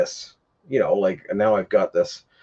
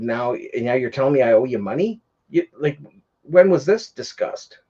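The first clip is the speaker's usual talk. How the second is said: cursing him out; 4 semitones higher than usual. Retold or imitated. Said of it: "cursing him out".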